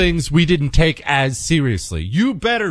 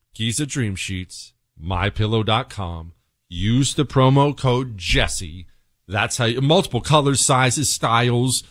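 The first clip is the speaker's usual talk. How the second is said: slow, low sponsor pitch; host slowing down to sell sheets, low and deliberate; ad read; 3 semitones lower than usual. Acted. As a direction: spell out the code slowly, like a radio ad.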